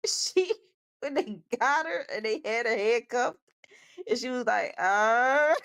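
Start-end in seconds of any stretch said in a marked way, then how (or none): 4.8-5.5 wounded mammal groan. Retold or imitated. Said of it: "She sound like a wounded mammal".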